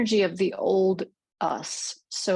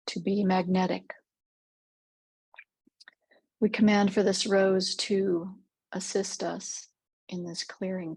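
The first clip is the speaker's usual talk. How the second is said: measured meditation voice with long pauses; guided meditation. Real, not acted. Guide leads listeners through a rose clearing visualization, calm meditative delivery. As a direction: guide gently, leaving space between phrases.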